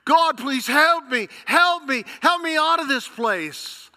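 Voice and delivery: high, loud begging, down to a breathless whisper; desperate plea. Acted. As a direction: beg God for rescue, voice cracking thin. Man pleading on cliff.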